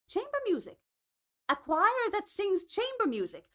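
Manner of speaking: high, incredulous question; can't believe what she's hearing; baffled disbelief. A narrator's reading. Alice baffled by Maria's chamber music choir, high and incredulous.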